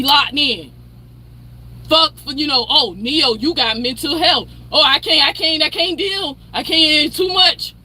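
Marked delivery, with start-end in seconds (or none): 2.7-7.7 higher, whiny mock complaint; mocking whiny excuse. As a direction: mimic the friends' fake overwhelm. Mocking friends' excuses about mental health.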